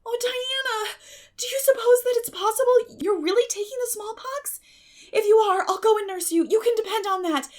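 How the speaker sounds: high, loud, earnest pleading; anxious young girl. A narrator's reading. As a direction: promise to nurse your sick friend. Anne frets over Diana's illness.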